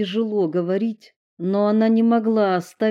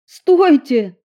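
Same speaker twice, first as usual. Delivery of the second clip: high, loud call to halt; sudden loud cry of alarm; sharp stop; 7 semitones higher, 9 dB louder than usual. A narrator's reading. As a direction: stop everyone at once. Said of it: "сказала Стелла".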